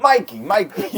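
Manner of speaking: high, slow, sleazy crooning of a name; drawn-out sleazy sweet-talk; Hollywood sleazeball. Retold or imitated. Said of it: "my impression of a Hollywood, uh, sleazeball".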